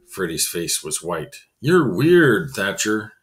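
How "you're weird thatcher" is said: loud scared outburst; frightened bully screaming at the boy; screamed. Acted. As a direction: yell it before running off. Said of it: "he screamed".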